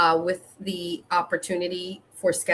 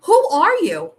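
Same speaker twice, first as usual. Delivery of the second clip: higher and louder, rising alarm; retelling her alarmed demand to the caller, loud; 5 semitones higher, 5 dB louder, much slower than usual. Retold or imitated. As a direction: demand to know who this stranger is. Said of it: "And I went".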